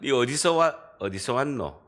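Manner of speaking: 경상도 말투로 툭 묻기, Gyeongsang dialect; 경상도 사투리. Shown as a demonstration. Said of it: "사투리를 쓰니까". (경상도 사투리로 묻는 말투)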